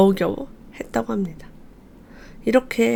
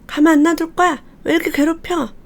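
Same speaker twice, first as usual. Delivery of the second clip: mock angry threat; 7 semitones higher than usual. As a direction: pretend to threaten the bully. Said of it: "막 했대요". (과장되게 화내며 높고 크게)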